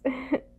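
short bright laugh; quick amused chuckle. Acted. Laugh at listener's need.

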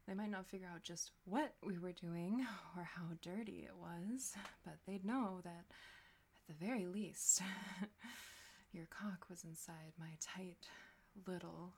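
hushed, intimate, teasing whisper; seductive whisper. Acted. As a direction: breathe it close to the mic.

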